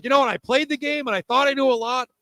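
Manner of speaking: high, mock-humble impression of the co-host. Co-host mimics host admitting he learned, mock high voice. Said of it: "and you're like".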